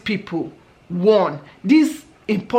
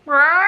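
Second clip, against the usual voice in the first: retold wail; 6 semitones higher, 4 dB louder than usual. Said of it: "It wasn't a bird".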